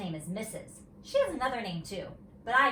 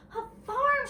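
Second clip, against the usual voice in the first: high, thrilled squeal; squealy; 5 dB louder than usual. A narrator's reading. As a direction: squeal it right into a friend's ear. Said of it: "real squealy in my ear".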